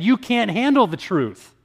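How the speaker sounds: a hint of the courtroom outburst, each word hammered; famous movie line. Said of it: "Someone once said".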